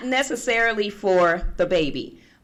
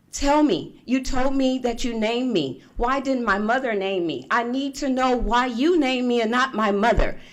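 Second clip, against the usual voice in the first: higher-pitched, insistent re-enacted plea; urgent demand; 5 semitones higher than usual. Niece calls her aunt about her name, urgent demand. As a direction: press hard for the truth.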